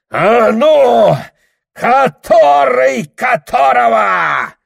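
очень высоко и громко; задирай в драке; боевой выкрик. Acted. Драка на ковре. (дерущиеся орут друг на друга)

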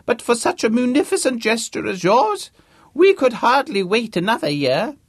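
put-on high, loud booming old academic; pompous old Vice-Chancellor. James impersonating a Vice-Chancellor to Harvey, booming. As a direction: play the grand deaf old don, full volume.

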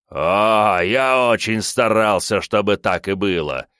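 mad laughter. Acted. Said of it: "безумно рассмеялся мужчина".

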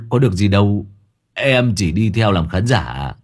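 lightly voiced stammering boy; a hint of nervous protest. Hải Béo stammering a complaint to his sister. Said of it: "Thằng Hải Béo nó lắp bắp".

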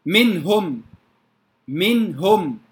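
منهم with crisp noon, no held hum, then ha; izhar before ha. Shown as a demonstration. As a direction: keep the noon of منهم still and short. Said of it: "الهاء". (إظهار النون قبل الهاء في منهم)

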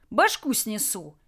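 slow, drawn-out threat; shouted threat. Acted. Raider threatening the guards, shouting with some restraint. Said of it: "выкрикнул, обращаясь к Лысому".

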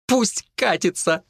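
high, slow sobbing outburst. A narrator's reading. Vika about the boyfriend who left, sobbing. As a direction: sob it out. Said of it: "раздался новый всхлип".

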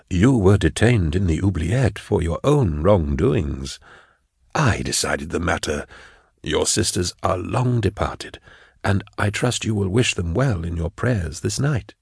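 smooth official closing the matter; calmly stern prefect. Acted. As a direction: dismiss them with unhurried authority. Prefect rebukes her calmly.

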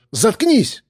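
high sharp yell; shout. A narrator's reading. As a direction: cut her off with a yell. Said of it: "крикнул Гера".

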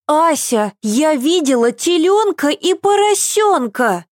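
put-on high eager little girl; a thrilled child bursting in; excited child. A narrator's reading. Little Eva telling her nanny about the farm, excited.

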